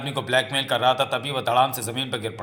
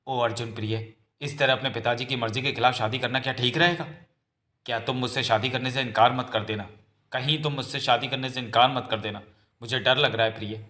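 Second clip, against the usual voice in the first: mild worry. Acted. Girl fearing her lover will refuse marriage, mildly worried.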